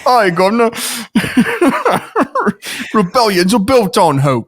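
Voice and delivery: mock Cockney, playing it for laughs; Felicity Jones in thick Cockney. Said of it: "this super thick Cockney accent".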